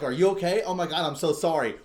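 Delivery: a quick, fussed Aussie sorry; Aussie apology. Retold or imitated. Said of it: "to his Aussie voice".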